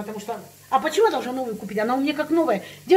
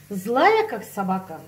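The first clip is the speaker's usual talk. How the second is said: angry; 6 semitones lower, slower than usual. Real, not acted.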